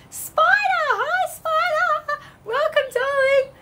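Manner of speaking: high, delighted call of a name; excited greeting. Real, not acted. Host greeting a live viewer, high and thrilled. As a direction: greet a favourite viewer with glee.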